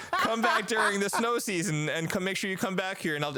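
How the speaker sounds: server voice. Retold or imitated. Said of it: "She's like".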